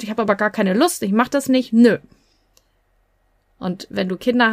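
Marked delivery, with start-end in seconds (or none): 0.0-2.0 put-on childish voice. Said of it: "so eine kindliche Stimme".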